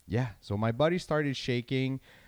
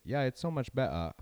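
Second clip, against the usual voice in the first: British accent, the T in "better" dropped to "betta"; playful British accent with "better" as "betta"; 3 semitones higher, 3 dB quieter than usual. Shown as a demonstration. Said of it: "figured out how to have the British accent".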